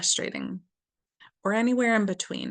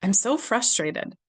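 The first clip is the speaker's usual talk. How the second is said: tapping affirmation; slower than usual. Shown as a demonstration. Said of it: "Inside the eye".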